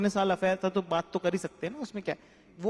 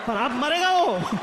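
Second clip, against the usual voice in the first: filmi menace; 6 semitones higher, 4 dB louder, slower than usual. Pretend. Dramatic Wasseypur menace line.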